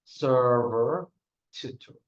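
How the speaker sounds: server and tutor each stressed on the first syllable; syllable stress demo. Shown as a demonstration. Teacher drills job words for students, first-syllable stress. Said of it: "Repeat after me".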